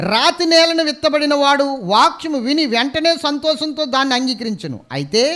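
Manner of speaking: preacher booming the Bible verse to the church; preaching scripture. Acted. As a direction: read it out like a pulpit proclamation. Reads scripture loudly.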